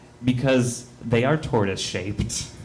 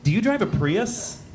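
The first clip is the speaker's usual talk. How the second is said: higher, eager coworker voice; coworker's high voice; 8 semitones higher, slower than usual. Retold or imitated. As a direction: play the keen coworker asking, pitched up. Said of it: "He's like".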